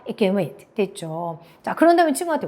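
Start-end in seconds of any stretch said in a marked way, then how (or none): 0.1-0.6 "It can" very weak, "wait" carrying the stress. Shown as a demonstration. Teacher modelling native phrasing, weak "It can" before stressed "wait". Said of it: "앞에 강세 굉장히 약하게".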